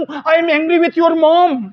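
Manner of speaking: very slow, deliberate English; slow model sentence. Shown as a demonstration. Teacher voices the wife's complaint slowly for students. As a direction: spell it out slowly for learners. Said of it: "देखिए, इसकी English बनाते".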